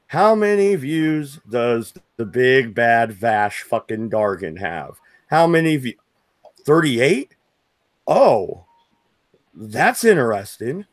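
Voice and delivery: slow, taunting sneer; mocking. Real, not acted. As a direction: drag it out to mock him. Taunting rival's view count.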